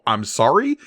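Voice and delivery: questioning mock disbelief; incredulous Vader. Podcaster imitates Vader hearing the name Skywalker, incredulous. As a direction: end it on a rising question. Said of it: "that makes Vader go".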